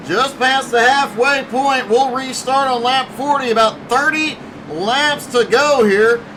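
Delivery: projected play-by-play voice; steady, energetic sports commentary; race announcer. Real, not acted. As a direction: call the running order to the audience.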